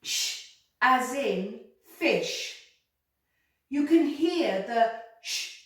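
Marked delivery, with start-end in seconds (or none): 0.0-2.6 Sh, as in fish said slowly; slow recap. Shown as a demonstration. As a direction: spell it out slowly for kids. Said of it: "Let's recap".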